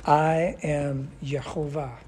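"I am Yehovah" slow and weighty; emphatic statement. Shown as a demonstration. Teacher showing God's nature to the class, "I am Yehovah" slow and emphatic. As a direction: draw out each word of "I am Yehovah". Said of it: "This is an emphatic statement".

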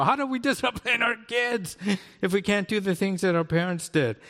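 high-pitched mock parental complaint; mock exasperated protest. Parents left without their discipline tools, mock exasperated protest.

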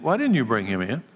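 mildly indignant questioning, rising in pitch midway; lightly acted demand for an explanation. A narrator's reading. Priests question the returning temple guards, mildly demanding. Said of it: "the leading priests and Pharisees demanded".

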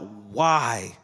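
repeated why rising in mild anguish; plead, then let the whys fade; understated desperate lament; crying out. Retold or imitated. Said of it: "He cries out".

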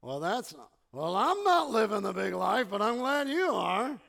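mock grudging congratulations; little disdain. Someone replies to "living the big life", mildly disdainful. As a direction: imitate someone mildly put out by the boast. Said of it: "Little disdain, like".

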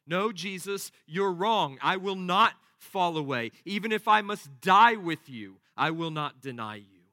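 firm, defiant contradiction; emphatic insistence. Acted. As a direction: insist on it, pushing hard on "die". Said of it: "Peter declared this repeatedly and emphatically".

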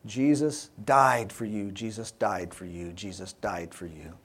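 a teacher's insistent refrain on DIED, gradually fading; emphasizing DIED. Retold or imitated. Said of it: "emphasizing the death".

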